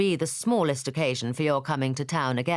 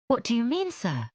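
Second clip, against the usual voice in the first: puzzled question; 9 semitones higher than usual. Acted. Jane questioning.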